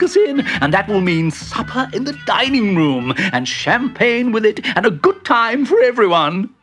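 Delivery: high, eager character voice; excited planning. Acted. Bertie promising supper and champagne, high excited voice. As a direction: build the plan with rising glee.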